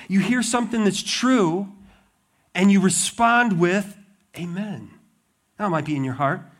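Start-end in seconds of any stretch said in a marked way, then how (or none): 4.4-4.9 softer, understated amen; quiet response. Shown as a demonstration. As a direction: murmur a heartfelt congregational assent. Models congregation's quiet response.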